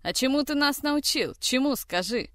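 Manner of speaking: high, sharp demanding question; angry challenge. A narrator's reading. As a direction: throw the question at him. Zoya challenges brother.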